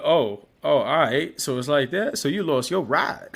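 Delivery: indignant mock sass; acting mad. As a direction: play the ungrateful attitude up loud. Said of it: "acting mad ignorant".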